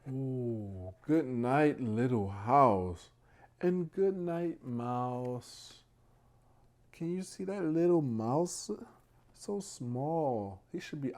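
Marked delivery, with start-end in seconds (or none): 1.0-5.8 slow, louder storybook read-aloud; drawing out each rhyming line; bedtime story reading. Acted. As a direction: read it out like a picture book for little ones.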